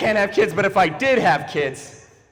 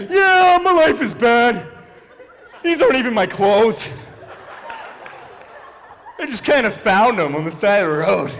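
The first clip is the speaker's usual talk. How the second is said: exaggerated, half-laughing wail; mock embracing of misery; 3 semitones higher than usual. Comic playfully imitates a woman embracing her bad life, mock wailing.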